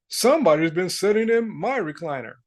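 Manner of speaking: lightly voiced father bear; a hint of a put-on papa-bear voice. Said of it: "And Papa Bear said".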